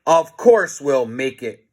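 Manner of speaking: slow, mildly insistent cheer; a touch of heroic bravado; mild confident cry. Acted. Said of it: "cried Captain Underpants".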